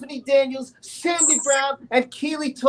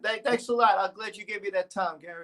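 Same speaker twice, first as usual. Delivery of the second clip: lightly lowered voice as Gary; Gary impression; 4 semitones lower, faster than usual. Singer thanks the host for his praise, light Gary impression. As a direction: play the grateful guest singer, a bit lower. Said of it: "You pretending to be me".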